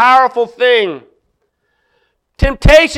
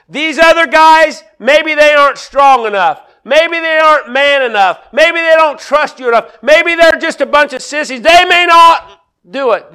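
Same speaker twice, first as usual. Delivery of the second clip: boastful Peter. Retold or imitated. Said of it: "he says it maybe a little different".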